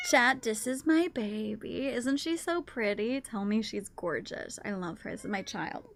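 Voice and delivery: tender pride. Real, not acted. Showing off cat tenderly.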